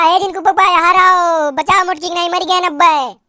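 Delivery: hammed-up cry for help to the husband; calling out for help. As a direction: shout for her husband in mock panic.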